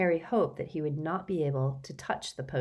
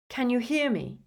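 higher, tense, worried question; strained; 6 semitones higher than usual. A narrator's reading. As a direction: anxiously check for a response. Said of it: "his voice strained".

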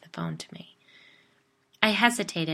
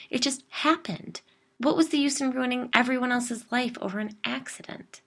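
higher and louder, upset and pleading; agitated outburst; 6 semitones higher, 8 dB louder than usual. Acted. Jill justifying the cover-up of the death, upset and loud. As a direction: defend yourself, rising in distress. Jill's agitated defence of the past.

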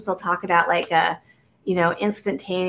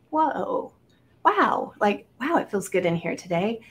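amazed wow; 2 semitones higher than usual. Retold or imitated. Retold delight entering deli.

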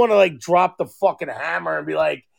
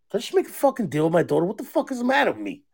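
laughing at himself; 6 dB quieter, much faster than usual. Real, not acted. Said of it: "laughing at himself".

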